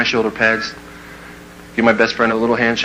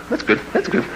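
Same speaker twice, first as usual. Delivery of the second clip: sly whisper; 9 semitones higher, 4 dB quieter than usual. Retold or imitated. Scheming to suck up.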